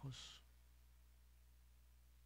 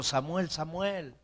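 slow, higher-pitched call by name; God calling Samuel; 4 semitones higher, slower than usual. Acted. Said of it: "Y le dijo".

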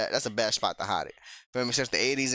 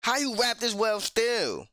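high-pitched, incredulous questioning; amazed disbelief; 9 semitones higher than usual. Real, not acted. Reactor marveling at a veteran rapper's verse, amazed. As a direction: ask it high, in real astonishment.

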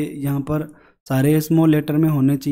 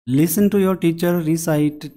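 slow reading aloud; much slower than usual. Shown as a demonstration. Reads instruction slowly.

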